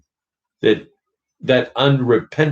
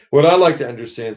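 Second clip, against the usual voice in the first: higher, quick aggrieved demand; indignant big ghost; 5 semitones higher, 4 dB louder, much faster than usual. Acted. Big ghost demands answers of the bright spirit, aggrieved. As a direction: press him like a wronged man. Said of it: "said the ghost".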